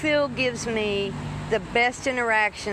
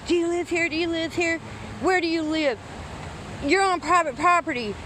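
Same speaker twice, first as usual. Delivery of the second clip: raised voice; 6 semitones higher than usual. Retold or imitated. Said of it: "raising his voice".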